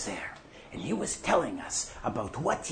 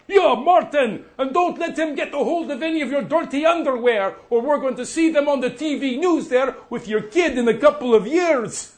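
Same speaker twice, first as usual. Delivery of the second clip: laughing taunt; 10 semitones higher, 4 dB louder than usual. Retold or imitated. Gordon mocking Martin, laughing.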